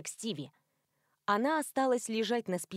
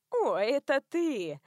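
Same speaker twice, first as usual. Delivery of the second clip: giggly; 4 semitones higher, slower than usual. A narrator's reading. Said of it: "хихикнула Лиан".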